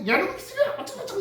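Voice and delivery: high-pitched scolding mimic of a little kid, laughing; scolding mother. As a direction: screech it like a tiny kid copying mom. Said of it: "그 엄마가 맨날 걔 보고".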